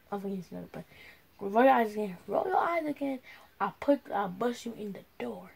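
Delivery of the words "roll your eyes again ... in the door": stern mom threatening. Pretend. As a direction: scold like an angry mother. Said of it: "put my mom voice on".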